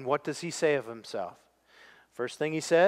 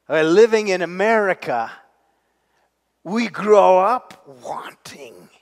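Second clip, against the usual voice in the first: hushed confession; 4 semitones higher, 10 dB louder than usual. Acted. Preacher whispers a confession.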